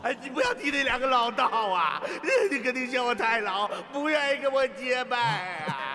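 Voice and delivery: put-on whimpering like a sulking child, slow at the end; whiny fake crying. Old man whines to the young hero, fake crying. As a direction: blubber to get your way. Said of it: "别哭啊！".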